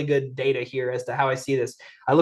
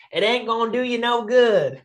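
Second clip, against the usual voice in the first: a light Alabama twang, higher; Alabama accent; 5 semitones higher than usual. Pretend. Coach teasing Robin with an Alabama accent. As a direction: drop into a folksy Alabama accent on the punchline. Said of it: "Talking about that Alabama accent".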